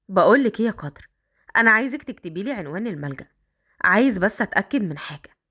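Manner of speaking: put-on a man coaxing the girl upstairs.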